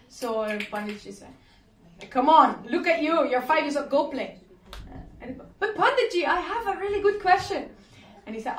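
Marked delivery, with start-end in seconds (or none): 2.1-4.4 loud, brushing-off scoff; dismissive. Acted. The great pundit waving off a five-year-old, dismissive. 5.6-7.6 put-on high, bright child's plea; eager little boy. Five-year-old boy pressing the pundit, eager.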